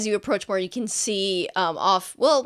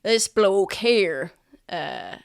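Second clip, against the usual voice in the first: slow guard; 2 semitones higher, 4 dB louder, slower than usual. Acted. Guard showing wanted poster.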